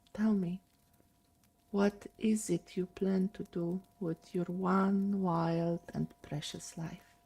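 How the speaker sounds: gentle recital of a Mary Oliver poem; poem reading. Acted.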